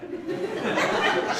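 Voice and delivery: high unvoiced giggle; breathy laugh. Real, not acted. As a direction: laugh it off with air. Laugh after failed profound thought.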